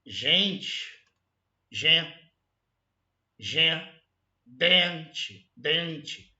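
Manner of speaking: "gente", "gen", "dente" one by one, with pauses; pronunciation demo. Shown as a demonstration. Teacher showing how the nasal vowel sounds, careful pronunciation demo. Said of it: "Quando você fala".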